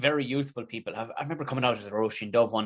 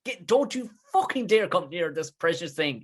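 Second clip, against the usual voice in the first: mock outrage; 5 semitones higher, slower than usual. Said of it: "it's like".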